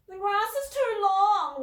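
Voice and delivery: put-on high, slow whining little girl; whiny child. A narrator's reading. A little girl whining to Dad about long grass. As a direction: whine it like a sulky nine-year-old. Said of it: "whined Rubella".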